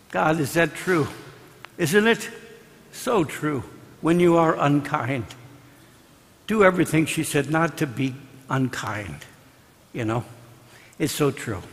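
very soft, pensive aside; hushed reflection. Real, not acted. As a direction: let it sink in, almost to yourself. Preacher reflects on the advice.

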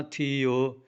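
"ਥੀਓ" with long held ee and o; drawn-out vowel. Shown as a demonstration. Teacher modelling it like the earlier word, "ਥੀਓ" drawn out. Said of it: "ਲੰਮਾ ਕਰਕੇ ਬੋਲਣਾ".

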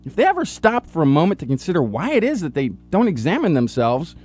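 solemn, grand announcer read; dramatic intro read. Acted.

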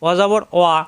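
"ওয়া" with rounded lips, a w sound. Shown as a demonstration. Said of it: "ঠোঁটটা গোল হবে".

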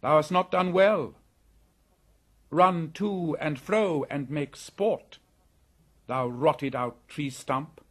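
loud, slow mocking echo; mocking scorn. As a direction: throw its own taunt back at it. Mowgli scolds cobra, mocks its words.

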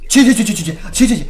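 loud, repeated panicky syllables; frantic stammering. Real, not acted. Gamer being chased, frantic babbling. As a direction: rattle the syllable out loudly in alarm.

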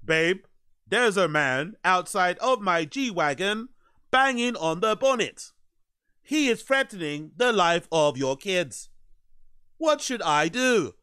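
slow, measured imitation of an unbothered caller; exaggeratedly composed, drawn-out delivery; mock calm tone. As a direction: mimic someone far too calm in an emergency. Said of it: "she said it in that calm tone".

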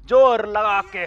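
loud, effortful heave call; straining shout. Real, not acted. Gamer straining to force open a train door. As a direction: push hard and yell it out.

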